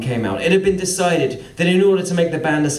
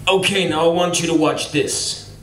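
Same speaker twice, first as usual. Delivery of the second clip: put-on American boss accent. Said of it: "he says".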